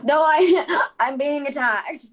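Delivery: laughing. Real, not acted. Player laughing mid-scene.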